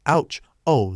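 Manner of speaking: sharp yelp of pain; yelling. Acted. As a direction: yelp it out, stung. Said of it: "Zenitsu yelled".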